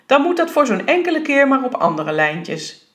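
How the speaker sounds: mildly self-important officialdom. A narrator's reading. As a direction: pronounce it like a minor official. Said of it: "sprak op een soort officiële toon".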